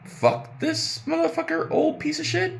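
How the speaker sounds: very high, slow, scornful; squeaky outraged rant. Real, not acted. Venting at the mother character, very high and scornful.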